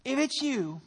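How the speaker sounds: loud, high, slow, pushy pleading; mock entitled prayer for a job; demanding prayer. Churchgoer demanding a job from God, loud mock pleading. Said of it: "that mindset of".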